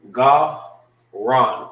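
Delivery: "Ga, ran" in two separate beats; syllables apart. Shown as a demonstration. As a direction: punch out GAH, pause, RAHN. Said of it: "This is pronounced by itself".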